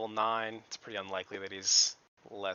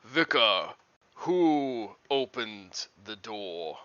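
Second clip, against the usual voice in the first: calling out; 5 dB louder, slower than usual. Acted. GM voices a character calling.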